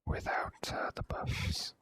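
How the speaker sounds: ordinary talk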